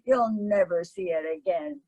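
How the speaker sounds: measured storytelling read with light character voices; story narration. A narrator's reading. Narrator reading an Oscar Wilde story to the group, unhurried. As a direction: read the tale aloud to a listening group.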